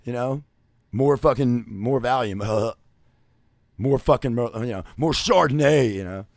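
lightly voiced, slow mock of a tipsy housewife; a hint of a sozzled housewife; mock bored wife. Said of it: "just be like".

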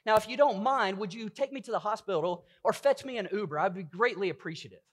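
stiff, overly proper little girl, hammed up; a hint of a posh, robotic daughter; mock formal child. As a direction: play a prim child asking politely for a hospital trip. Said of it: "she didn't come up to my wife and I and go".

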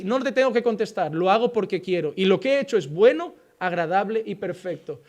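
low, soft, grave voice of God answering. Acted. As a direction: speak as God, quiet and heavy with authority. (voz de Dios, grave y baja)

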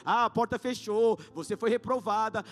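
loud, fervent preaching; loud, urgent sermon delivery; preaching at full force. Acted. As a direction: rouse the church with loud conviction.

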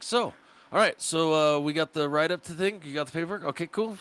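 high, easy and unbothered; breezy mock nonchalance. Young DJ to the fussing manager, breezily unbothered. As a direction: shrug it off cheerfully. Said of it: "I was like".

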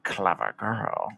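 low, slow, soft menace; Hannibal Lecter intonation. Retold or imitated. Likening the hunter to Hannibal for the co-host, low slow impression. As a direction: draw each word out low and quiet. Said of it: "the intonation of the voice".

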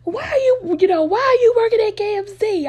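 high, crying plea; tearful pleading. Retold or imitated. Daughter begging dad not to work at KFC, high crying plea. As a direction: beg through tears, voice up high. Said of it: "my eyes started watering".

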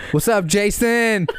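high, slow, laughing "What's up, Jason?"; laughing mock greeting. Joking about greeting Jaden Smith by the wrong name, laughing. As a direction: mess up the name through a laugh. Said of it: "you were like".

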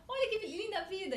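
high, delighted little cartoon heart; little heart character. Heart shows its little friend a butterfly, high-pitched wonder. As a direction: marvel in a small high-pitched voice. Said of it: "o coração tá olhando uma borboletinha".

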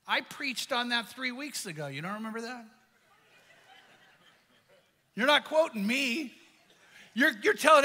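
hurt pride, muttered under the breath; mock indignant thought. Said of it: "the first thought I had is".

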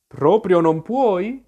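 slow, pitying queen's voice; compassionate. A narrator's reading. Queen pities Alice who won't believe, compassionate tone. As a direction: say it with gentle pity, drawn out. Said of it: "chiese la regina in tono compassionevole".

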